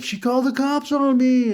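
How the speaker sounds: put-on high whiny teenage protest. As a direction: whine it like a sulky teen. Teen complaining to dad.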